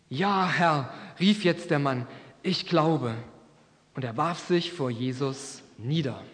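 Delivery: measured Bible reading with lightly voiced characters; story reading for a church; scripture reading. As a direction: read the Gospel story to the congregation. Reads scripture aloud in sermon.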